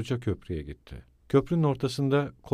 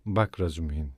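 forced calm, deliberate; 7 semitones lower than usual. A narrator's reading. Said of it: "sakin görünmeye çalışarak ve tane tane".

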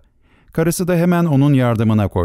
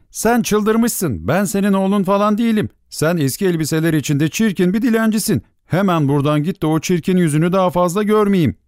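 angry outcry; 7 semitones higher than usual. A narrator's reading. Star child rejects the beggar as his mother, angry. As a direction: cry out angrily without real volume. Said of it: "diye bağırdı".

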